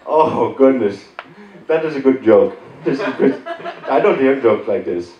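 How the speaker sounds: tickled Indian caller, imitated; Indian-accented appreciation of a joke; mock Indian telemarketer enjoying himself. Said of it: "most of them are Indian".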